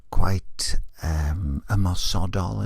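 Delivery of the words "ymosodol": ymosodol said the Welsh way, clear Welsh vowels; Welsh word. Shown as a demonstration. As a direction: say ymosodol like a native Welsh speaker. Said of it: "as we say in Welsh".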